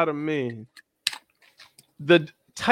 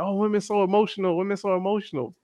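higher-pitched imitation of complaining men; lightly mocking, pitched-up refrain; mock complaint; 5 semitones higher, faster than usual. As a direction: parrot a tired accusation. Mimics men's stock complaint.

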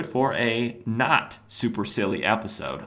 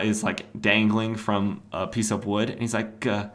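ordinary talk, nothing marked

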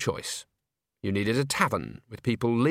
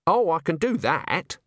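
snapping; 6 semitones higher than usual. Acted. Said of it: "snapped Agnes".

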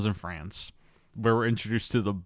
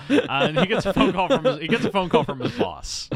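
talking through laughter, high and loud; real laughter breaking into the words; laughing; 10 semitones higher, 6 dB louder than usual. Real, not acted. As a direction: push the recap out through giggles. Laughing while resuming the plot summary.

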